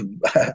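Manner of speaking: short, low, soft chuckle; a quick laugh under the breath; brief chuckle. Real, not acted. Chuckles mid-remark about Russia.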